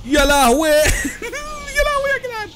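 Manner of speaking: high, laughing cry of disbelief; laughing shock. Real, not acted. Gamer laughing at a wild car crash. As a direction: burst out laughing in amazement.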